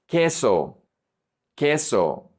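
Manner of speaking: Queso as "KEH-so", no w sound; silent U. Shown as a demonstration. Teacher modelling Spanish Q, Queso with silent U. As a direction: drop the u in Queso entirely. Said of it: "The U is silent".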